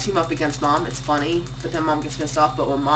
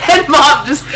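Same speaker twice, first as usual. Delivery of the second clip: slow laugh; 11 semitones higher, 4 dB louder than usual. Retold or imitated. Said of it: "does her slow laugh".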